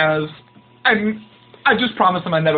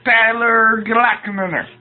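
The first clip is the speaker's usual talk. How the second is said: slow, lightly higher Cosby drawl; Cosby impression; 4 semitones higher than usual. Guest correcting the host's name, slow Cosby drawl. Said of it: "that's his act".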